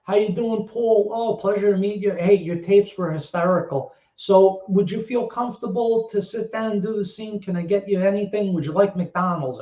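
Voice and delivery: mild impression of a kindly welcome; retold friendly, gentle chat; imitating De Niro, gentle. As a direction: put a young actor at ease, lightly acted. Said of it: "gentle as, like, a kitten".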